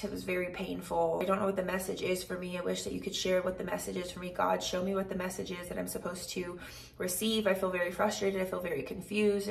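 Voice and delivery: softly recited private plea to God, mildly frustrated; understated, slightly rushed praying aloud; retold frustrated prayer. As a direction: replay a confused prayer in an undertone, hurrying a little. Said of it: "I'm sitting there in prayer".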